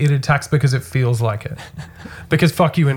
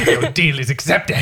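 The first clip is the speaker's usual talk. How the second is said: lightly voiced villainous snake; a hint of a sly snake villain; 3 semitones higher than usual. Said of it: "That's my snake voice".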